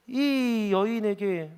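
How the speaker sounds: normal talking voice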